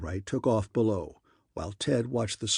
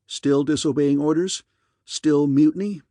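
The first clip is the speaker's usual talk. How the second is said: loud, higher-pitched accusing questions; angry rebuke; 3 semitones higher, 6 dB louder than usual. A narrator's reading. Admiral cutting off Wilson over orders, angrily. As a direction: fire the questions at a disobedient officer.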